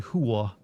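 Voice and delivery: "whore" stretched into HOO-uh; two-syllable whore. Shown as a demonstration. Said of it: "some people say the word whore as whore".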